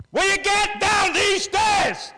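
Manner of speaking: high, slow exasperated yell up the stairs; shouting at the kids. Shown as a demonstration. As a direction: bellow it like a fed-up parent. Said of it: "we lift our voice".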